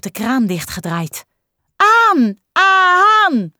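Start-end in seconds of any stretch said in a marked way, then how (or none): 1.8-3.5 put-on high, loud children's call. Children calling to the teacher to turn the tap back on, loud and high. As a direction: call out demanding, like eager kids. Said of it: "roepen de kinderen".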